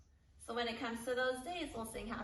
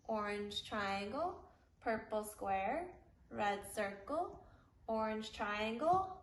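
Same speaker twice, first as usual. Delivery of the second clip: put-on broad singsong kids theatre. Shown as a demonstration. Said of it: "Let's say it together".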